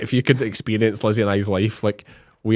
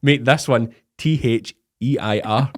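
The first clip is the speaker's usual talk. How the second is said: mock inventor; slower than usual. Mock inventor, slow spelled out.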